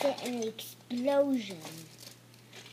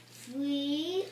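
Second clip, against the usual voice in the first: loud countdown; 7 dB louder than usual. Acted. Countdown to firing.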